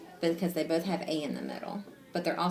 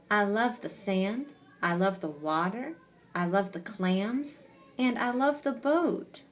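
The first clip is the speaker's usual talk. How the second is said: read-aloud dialogue; 2 semitones higher, slower than usual. A narrator's reading. Reading character's list of loves aloud.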